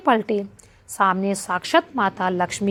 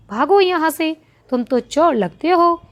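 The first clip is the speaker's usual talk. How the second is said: loud, higher, chasing beggars off; angry shout; 7 semitones higher, 4 dB louder than usual. A narrator's reading. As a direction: bark them out of the doorway. Townspeople chase the brothers away.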